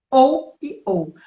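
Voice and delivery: slow, deliberate ou and ou; slow demo. Shown as a demonstration. Teacher showing the two ou sound the same, slow. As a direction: say ou twice, slow and identical. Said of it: "não tem diferença".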